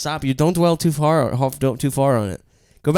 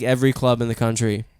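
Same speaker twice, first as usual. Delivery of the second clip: normal talking voice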